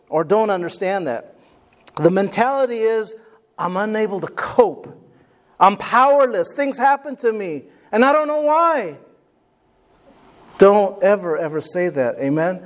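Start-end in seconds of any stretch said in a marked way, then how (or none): 3.6-9.0 mock helpless whine, rising; a lightly voiced helpless victim. Voicing victim mentality.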